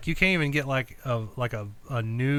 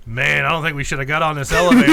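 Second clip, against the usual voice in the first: laughing; 8 dB louder, faster than usual. Retold or imitated. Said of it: "Dustin was like".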